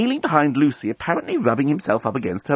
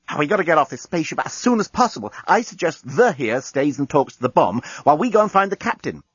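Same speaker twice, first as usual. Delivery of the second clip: hurried woman's voice; 4 semitones higher than usual. Acted. Lucy urgent, voiced.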